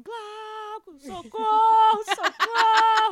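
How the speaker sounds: drawn-out calling for help, slow; hammed-up yell for husband; mock panicked shout for help; mock cry for help. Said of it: "Fiquei lá no banheiro gritando".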